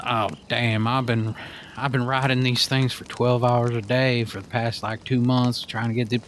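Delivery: put-on easy cowboy-style Southern accent. Stranger at the airport talking about flights, Southern accent. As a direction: imitate a Southern accent, lightly. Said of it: "with a Southern accent".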